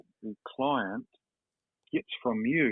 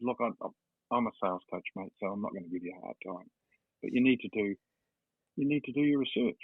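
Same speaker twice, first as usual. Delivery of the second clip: polite and calm. Retold or imitated. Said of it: "I was nice and I was polite".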